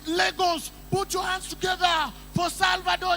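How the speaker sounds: big stage announcer voice; MC announcement. Retold or imitated. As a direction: call it out like an event MC. MC announcing the artist.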